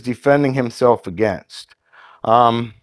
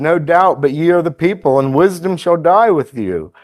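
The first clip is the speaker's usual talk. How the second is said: higher-pitched, mildly sarcastic scripture reading; 4 semitones higher than usual. Acted. Job retorting to the friends who accuse him, sarcastic. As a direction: read it as Job's lightly mocking retort. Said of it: "he's being pretty sarcastic here".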